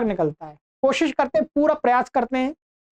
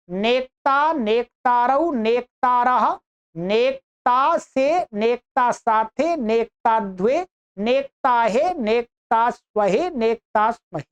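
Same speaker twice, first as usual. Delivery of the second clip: 1 tag only; much slower than usual. Acted. Recites conjugation table.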